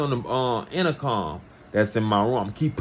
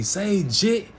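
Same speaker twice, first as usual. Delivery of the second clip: yelling across the cells; 10 semitones higher than usual. Retold or imitated. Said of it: "everybody yelling at me".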